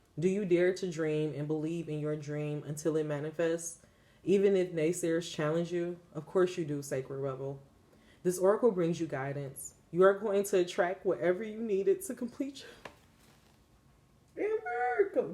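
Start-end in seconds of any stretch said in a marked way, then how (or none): 9.9-15.3 moved, close to tears, swooping voice. Reading an oracle card's guidance to the listener, getting emotional. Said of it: "Why am I getting so emotional?".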